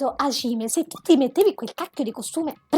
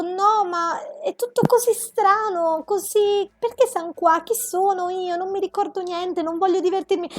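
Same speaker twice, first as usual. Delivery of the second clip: mock whiny Hajime; 3 semitones higher than usual. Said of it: "Prima era tutto".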